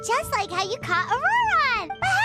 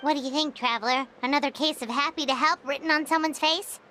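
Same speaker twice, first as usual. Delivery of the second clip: very low-pitched, confiding aside; low conspiratorial comment to a companion; wry aside; 11 semitones lower, faster than usual. Acted. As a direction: drop your voice for a knowing remark.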